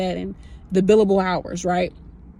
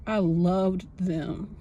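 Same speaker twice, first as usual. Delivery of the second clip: voice breaking; 2 semitones lower, 5 dB quieter, much slower than usual. Real, not acted. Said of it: "Why am I getting emotional?".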